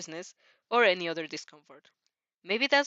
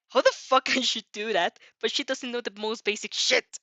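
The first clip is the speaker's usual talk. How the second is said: louder, a half-acted teenage outburst; irritated Katsuki; 2 semitones higher, 5 dB louder than usual. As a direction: bark it like a boy who can't believe it. Katsuki fuming at Athena.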